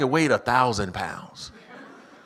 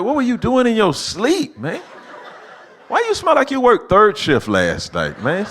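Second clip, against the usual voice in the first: incredulous dad; 11 semitones higher, 5 dB louder than usual. Retold or imitated. Dad confronting smelly son.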